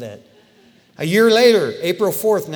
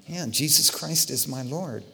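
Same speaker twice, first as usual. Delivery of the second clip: hesitant confession; 6 dB quieter than usual. Retold or imitated. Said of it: "Are we gonna say".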